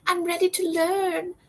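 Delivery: eager little student. Retold or imitated. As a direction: squeak it out like a keen little pupil in a bow tie. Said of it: "Be like".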